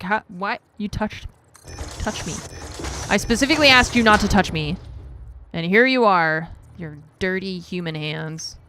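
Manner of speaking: haughty cat voice, indignant and loud at the peak; mock offended cat. Cat scolding her human, indignant and mock outraged. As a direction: play the cat scolding her owner for touching her. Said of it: "She's like".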